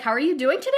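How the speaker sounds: statement-style uptalk, voice lifting at the end; mock upspeak. Shown as a demonstration. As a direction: let the end rise like a question. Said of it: "their voice goes up at the end".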